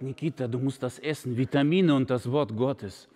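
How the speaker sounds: put-on low, coaxing Russian accent; feed him while coaxing; Russian-accented Viktor. Viktor mit Akzent. (tiefer russischer Akzent, zuredend)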